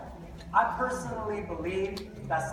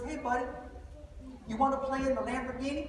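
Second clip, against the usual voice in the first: put-on soft, higher friendly invite to a little boy; friendly to kid; 4 semitones higher, 5 dB quieter than usual. Famous man invites the boy to play in the car, gently. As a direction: lean down and coax the kid gently. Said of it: "He goes".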